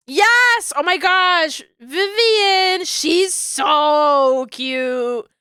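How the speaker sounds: squealing with delight; excited gushing. Real, not acted. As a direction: gush over her, thrilled. Gushing over favorite character.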